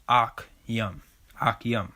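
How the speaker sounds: Akyum said slowly as "ahk-yum"; pronunciation demo. Shown as a demonstration. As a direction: sound out Akyum in two parts, "ahk" then "yum". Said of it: "'cause it's pronounced".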